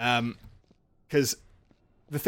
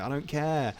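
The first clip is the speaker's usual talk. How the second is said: lightly raised, offhand brush-off; mock dismissive; 3 semitones higher than usual. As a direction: imitate someone who couldn't be bothered. Luke brushing off Rey's plea.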